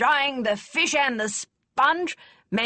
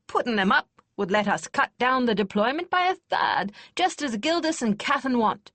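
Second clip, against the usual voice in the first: put-on higher, louder old warhorse of a lady; exclaiming; 7 semitones higher, 5 dB louder than usual. A narrator's reading. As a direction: fire up like a warhorse hearing the bugles. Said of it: "Lady Kester exclaimed".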